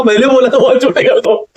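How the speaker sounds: repeating बोला था बाल छोटे कर दो through a real laugh; laughing while quoting his own words back, a little incredulous. Real, not acted. To the furious barber, laughing at the mix-up, through giggles. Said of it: "और मेरे को हंसी आ रही".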